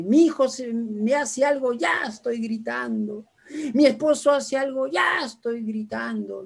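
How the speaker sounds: high, drawn-out mock complaint; exasperated mother. Mother confessing to her doctor, high exasperated complaint. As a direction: plead helplessness with stretched words. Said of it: "yo no puedo controlarme".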